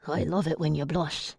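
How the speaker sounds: hushed, longing vampire voice. A narrator's reading. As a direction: murmur it to her tenderly. Narrator voices Ian.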